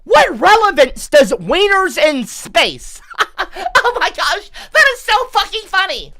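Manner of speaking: slow, high words through laughter; laughing. Real, not acted. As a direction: giggle through the question. Laughing at the spam.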